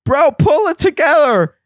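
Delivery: high, strained mock yelling; scolding inner voice. Brain talking to itself in the water, high frantic scolding. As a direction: act out a panicking brain ordering itself around. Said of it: "your brain is also going".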